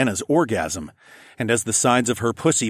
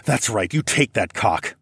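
understated growl; 2 semitones higher than usual. Acted. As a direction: growl it lightly. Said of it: "I growled".

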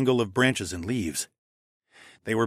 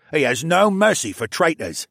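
raised, forceful character voice; louder, emphatic henchman; tough prisoner; 5 semitones higher, 4 dB louder than usual. A narrator's reading. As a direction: warn grimly as the harder captive. Tougher prisoner warns of his boss.

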